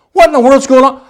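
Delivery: high, astonished outburst; bewildered cry. Acted. Preacher as the floored boxer seeing lights, bewildered.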